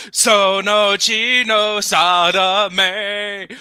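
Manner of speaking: dramatic. Acted. Dramatic slow line read.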